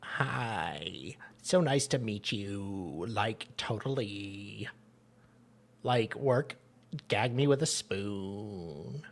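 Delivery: put-on valley girl. Tinder date mocked in a soft, slow valley girl voice. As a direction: drawl it out like a bored valley girl. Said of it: "and she's like".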